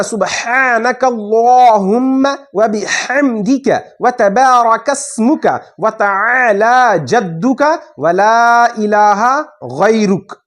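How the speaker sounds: slow, chanted Arabic prayer; slow devotional recitation; recited prayer. Shown as a demonstration. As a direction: intone the sana slowly. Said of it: "फिर पढ़ना है".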